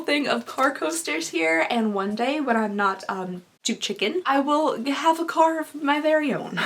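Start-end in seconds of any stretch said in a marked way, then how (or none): 1.7-6.7 sick, worn-out grandma voice; scratchy voice from a cold; hoarse voice. Real, not acted. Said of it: "my voice is slowly becoming that grandma voice".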